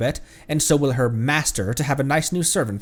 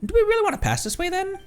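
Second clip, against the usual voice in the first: high Paimon voice. Acted.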